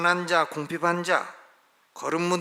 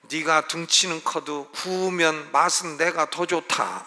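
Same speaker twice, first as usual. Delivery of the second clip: slow, cheeky little-bird boast; a lightly voiced sparrow bragging to the cow; sparrow's taunt; slower than usual. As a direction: tease the big cow slowly, with a smirk.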